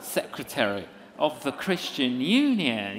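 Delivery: mock-grand announcement; secretary said with pompous pride; proud. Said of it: "It's like".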